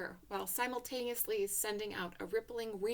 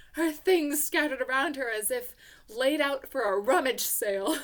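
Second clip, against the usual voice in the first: louder, buoyant narration; elated; 3 semitones higher, 10 dB louder than usual. A narrator's reading. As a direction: keep riding the relief. Relief continuing.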